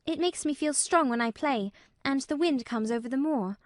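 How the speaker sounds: high-voiced child making her case; mildly insistent, high girl's voice; Mary, arguing. A narrator's reading. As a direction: argue earnestly as a little girl. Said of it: "argued Mary".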